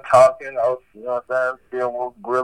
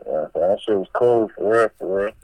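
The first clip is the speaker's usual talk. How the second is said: muffled like a jail phone; speaking with a hand over the mic; 4 semitones lower than usual. Real, not acted. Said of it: "you sound muffled".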